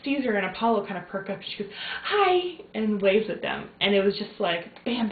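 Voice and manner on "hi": put-on high, loud little baby "Hi"; bright imitated baby greeting; imitating baby's hi. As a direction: squeak it like a baby greeting the dogs.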